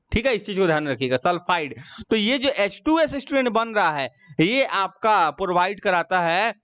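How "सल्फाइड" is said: teacher correcting how students say सल्फाइड; D not T. Shown as a demonstration. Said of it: "टी नहीं, डी".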